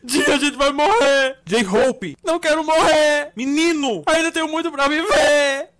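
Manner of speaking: sobbing plea not to die; tearful panic. Acted. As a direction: cry out that you don't want to die. Sure they will die. (choro desesperado)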